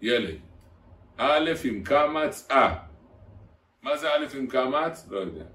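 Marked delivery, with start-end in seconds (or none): 1.2-2.7 slow, chanted alef-bet drill; slow sing-song classroom drill; rote alphabet drill. Shown as a demonstration. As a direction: teach the letters syllable by syllable, drawn out. Drilling alef-bet like a cheder teacher.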